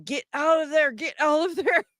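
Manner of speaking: mock scream. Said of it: "I was screaming".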